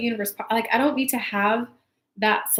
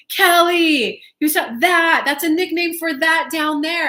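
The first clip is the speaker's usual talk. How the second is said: dad explaining; 6 semitones higher, 6 dB louder than usual. Retold or imitated. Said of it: "might have been my dad".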